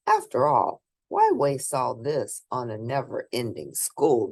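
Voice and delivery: put-on lively read-aloud voice for children; storybook reading. A narrator's reading. Reading a picture book aloud to children, lively storybook narration. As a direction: bring the bedtime story to life for little listeners.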